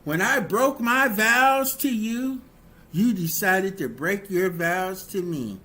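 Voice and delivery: a heated, self-justifying apology that blames the other spouse; defensive bad apology. Spouse excusing the cheating with a hurt, accusing apology. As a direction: play the cheating spouse making excuses, bitter and wounded. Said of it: "These are things that people say and do".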